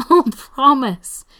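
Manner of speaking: slow, high, loud laughing assurance; giggling. A narrator's reading. Spencer assures Brendan he is fine, giggling. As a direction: burst it out through helpless giggles. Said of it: "manages to get out between giggles".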